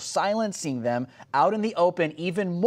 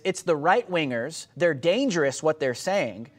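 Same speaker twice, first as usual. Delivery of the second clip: mocking quote. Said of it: "what they're gonna say is".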